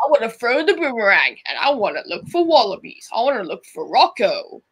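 lightly put-on Australian accent. Shown as a demonstration. Cuphead greeting a mate, lightly Australian accent. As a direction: play an Aussie, with a hint of the accent. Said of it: "I wonder if my Australian accent".

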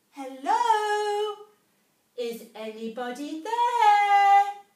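high, loud calling into a cave; a tiny mouse calling into a big dark hole; shouting mouse. A narrator's reading. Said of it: "she shouted".

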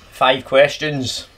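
slow, drawn-out announcement; mock announcer. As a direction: spell it out like a quiz host. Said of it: "Quick fire round".

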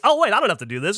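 Australian twang impression. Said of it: "a little Australian twang to that".

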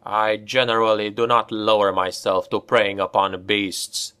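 plain reading voice

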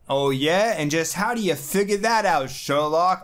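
snark at the know-it-all; Ben voice. Retold or imitated. S0 voicing Ben mocking.

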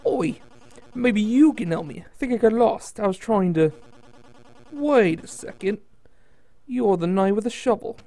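put-on Australian accent. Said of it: "Little Australian accent in there".

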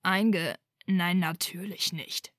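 loud furious shout, cracking off the first word. A narrator's reading. Draco shouts at Hermione over her reckless plan. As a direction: yell it at her in outrage. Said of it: "schrie er jetzt".

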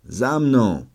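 rally him to follow; called out. A narrator's reading. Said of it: "zawołałem".

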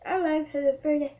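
talking while chewing; mouth full. Real, not acted. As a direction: say it through a mouthful. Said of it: "Don't talk with your mouth full of fruit".

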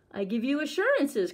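a touch of an urgent cry; mild cry. Acted. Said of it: "cried the tiger".

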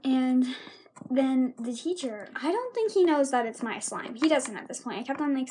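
ordinary delivery

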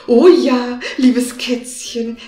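flattered, friendly wizard. Acted. Wizard charmed by the cat's praise, friendly. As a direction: answer sweetly, pleased with himself. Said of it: "ward ganz freundlich von den süßen Worten".

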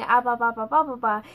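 mouthed ba ba ba syllables; loud chopped ba sounds; out-of-sync lip syncing. Retold or imitated. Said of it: "I was going".

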